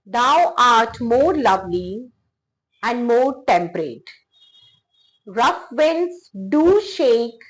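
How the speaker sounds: slow, measured sonnet reading; unhurried poetry reading aloud; poem recitation. Acted. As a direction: recite the verse slowly, pausing after each phrase. Reads Sonnet eighteen aloud.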